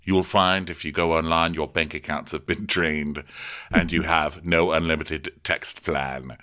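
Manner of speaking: low, solemn mock warning; mock grave announcer. Storm addressing the guests in a low mock announcement. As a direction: read it like a deadpan public notice. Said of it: "So Storm is like".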